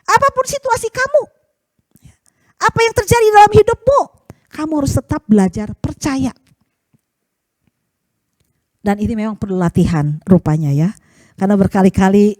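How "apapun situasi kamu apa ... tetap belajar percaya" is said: God speaking. Acted. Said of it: "Tuhan katakan".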